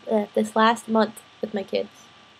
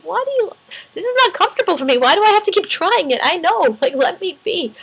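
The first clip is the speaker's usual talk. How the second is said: high-pitched, worked-up pleading; hammed-up exasperation, easing down at the end; exasperated protest; 8 semitones higher, 3 dB louder than usual. Acted protest to mentor about trying.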